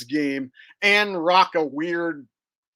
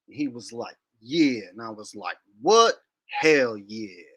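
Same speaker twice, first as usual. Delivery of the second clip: Impression of a rapper. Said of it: "here's my, uh, rapper impression".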